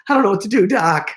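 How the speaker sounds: high, strained Marty McFly whine. Retold or imitated. Retelling the talk show, doing Marty to Doc. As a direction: play the panicked teen from the film. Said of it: "started to sound like Marty McFly".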